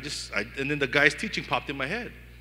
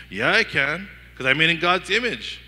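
louder, triumphant comeback to the lie; loud defiant declaration; 4 semitones higher, 8 dB louder than usual. Pretend. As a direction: shout it back with full conviction.

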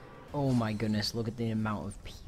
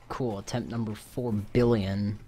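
dry sarcastic remark, slow; deadpan the failure sarcastically; 5 dB louder than usual. Real, not acted. Sarcastic after another loss.

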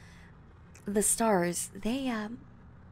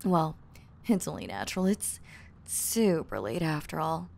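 ordinary talk

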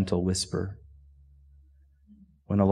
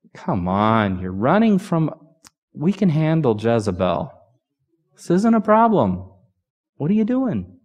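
high, pushy cajoling, pitched up; cajoling God; 5 semitones higher than usual. Pretend. Preacher voicing the God who doesn't cajole Elijah, pitched high. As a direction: coax him like an impatient friend. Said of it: "God doesn't cajole him".

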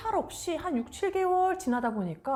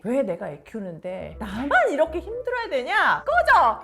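cursing outburst; 7 dB louder than usual. Retold or imitated. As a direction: play the cursing wife, exploding on the last word. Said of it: "이렇게 욕을 하는 것은 물론". (욕하며 버럭 하는 아내 흉내)

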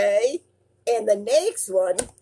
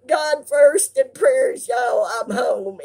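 real tears breaking through, higher and louder; choked up thanking viewers for prayers; crying; 5 semitones higher, 3 dB louder than usual. Real, not acted. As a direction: voice cracking as she cries with gratitude. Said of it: "but I'm gonna cry because it's from the heart".

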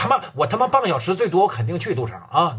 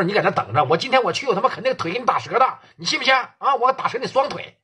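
higher, fast furious tirade down the phone; angry rant; 4 semitones higher than usual. Acted. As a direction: yell threats over the phone. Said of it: "给宋启航气得干饭店了".

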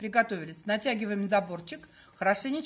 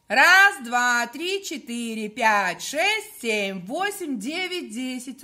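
loud chanted count together; many voices in unison; 3 semitones higher, 6 dB louder, much slower than usual. Shown as a demonstration. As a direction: count aloud with the group. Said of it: "всё вместе считаем".

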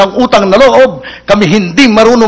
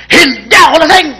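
higher, bolder "Hindi ako lasing!"; defiant denial; 6 semitones higher than usual. Acted. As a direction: push back at the cop. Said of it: "Mamatapang ah".

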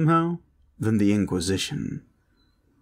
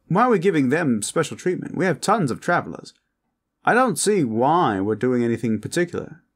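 huffy, higher-pitched posh vampire; 8 semitones higher, 3 dB louder than usual. Acted. Vampire objecting to special treatment for traveler, high and huffy. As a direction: complain like a put-out vampire aristocrat.

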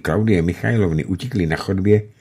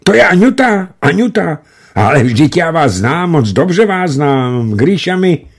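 much higher, louder, overjoyed calling; excited shout; 10 semitones higher, 3 dB louder than usual. A narrator's reading. Alexej shouting joyfully into the phone to Anna. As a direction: shout with all his strength for joy. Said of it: "už křičel, co mu síly stačily".

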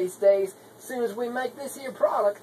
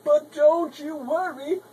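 toned-down reassurance; 3 semitones higher than usual. Acted. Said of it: "we tone it down a bit and say".

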